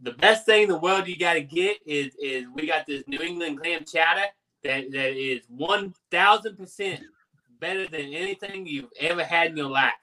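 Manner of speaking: Boston drifting toward Cajun; Boston accent, slipping. Shown as a demonstration. Selling clam chowder, muddled Boston-Cajun accent. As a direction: start in Boston, wander into Cajun. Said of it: "that was Boston mixed with a little Cajun".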